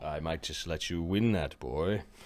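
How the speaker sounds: hushed, soft half-whisper under the breath. Voicing a wizard at an auction, speaking to a bidder: half-whispering. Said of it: "He whispers to you".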